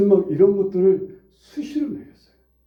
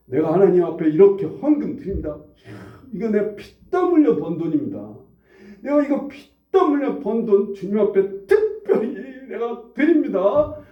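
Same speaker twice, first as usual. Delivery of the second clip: mock proud offering; 4 semitones higher than usual. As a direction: ham up a self-satisfied giver. Mocks a proud offering prayer.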